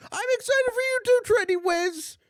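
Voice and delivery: very high, loud excited reply; excited squeal. Real, not acted. Streamer answering a kind chatter, squealing with excitement. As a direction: gush right back at the chatter.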